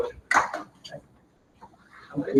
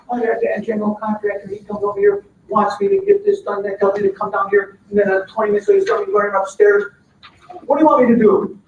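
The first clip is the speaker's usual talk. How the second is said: a raised, exasperated complaint from a worker; upset worker's rant; 3 semitones higher than usual. Acted. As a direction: vent like a crew member fed up with being bounced around. Worker complains about contractor.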